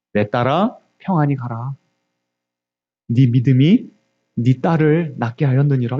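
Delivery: low, tender pronouncement; imitated kindly Jesus; gentle blessing. Voices Jesus gently blessing the woman.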